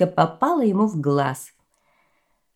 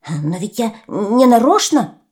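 clucking pheasant; 4 semitones higher, 6 dB louder than usual. Acted. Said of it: "закудахтал фазан".

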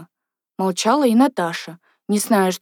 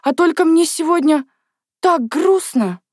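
sad confiding; 7 semitones higher, 3 dB louder than usual. A narrator's reading. Crying girl confides in her friend.

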